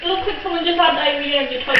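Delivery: laughing. Real, not acted. Laughing at the mess.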